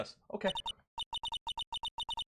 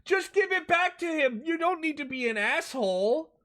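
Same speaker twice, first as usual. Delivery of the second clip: angry yell; 12 semitones higher than usual. Real, not acted. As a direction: yell in protest at him. Yelling at Phoenix on screen.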